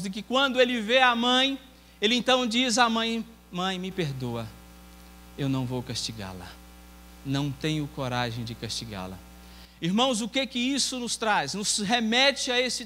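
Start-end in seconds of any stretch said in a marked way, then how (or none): 3.5-9.2 soft tearful. Acted. Son refuses to punish mother.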